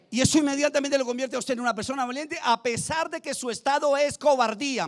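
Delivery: fervent preaching. Real, not acted. Preacher telling the church what confession turns them into, insistent. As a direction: press the point home from the pulpit.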